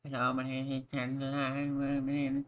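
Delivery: friend's voice pitched well up; impression of Nat. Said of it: "That was actually a really good impression".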